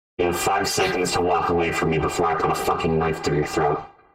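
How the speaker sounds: low, loud, menacing voice through a voice changer.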